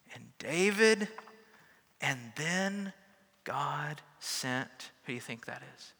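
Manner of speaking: put-on storybook reading voice for kids on the steps; lively picture book read-aloud; reading to children. Pastor reading a picture book to kids on the steps, lively storytelling.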